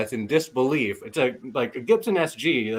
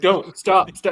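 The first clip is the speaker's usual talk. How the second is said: put-on pleading, begging voice, higher; 6 semitones higher than usual. Retelling how another speaker told someone to stop: imitating someone begging. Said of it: "begging him".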